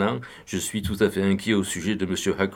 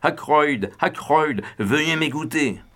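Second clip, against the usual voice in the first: high, raised call through the door; 6 semitones higher, slower than usual. A narrator's reading. Doctor shouting to Ackroyd behind the locked door, raised call. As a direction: call his name to rouse him. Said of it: "en criant".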